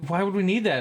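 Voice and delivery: high-pitched puzzled questioning; mock bewilderment. Quoting a friend baffled about needing video, mock bewilderment. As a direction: imitate someone baffled, voice pitched well up.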